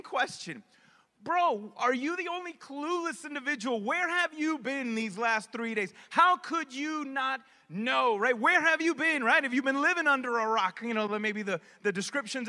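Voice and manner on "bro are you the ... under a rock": snapping back. Retold or imitated. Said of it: "the guy snapped back at Jesus".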